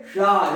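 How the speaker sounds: सा said as retroflex "sha"; tongue curled back to make सा sound like ष; retroflex sibilant. Shown as a demonstration. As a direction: model सा as a retroflex ष for students. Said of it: "आप लोग उच्चारण क्या करेंगे?".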